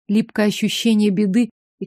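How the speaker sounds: plain reading voice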